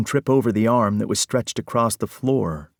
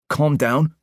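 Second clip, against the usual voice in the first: higher, disbelieving calm down with a rising tune; incredulous echo; 6 semitones higher, 3 dB louder than usual. Acted. Parker repeats Will's calm down in disbelief. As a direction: throw the words back, rising. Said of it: "was practically screeching now".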